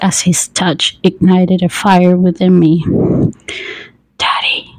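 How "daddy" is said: soft, voiceless whisper. A narrator's reading. Narrator voices a lover's word slipping out, whispered. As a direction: let the word slip out in a whisper. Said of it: "I whispered".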